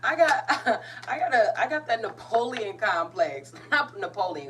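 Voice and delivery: high, loud laughter breaking into the words; talking through helpless giggles; real laughing. Real, not acted. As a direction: crack up at yourself while talking. Cracking up at own tough act.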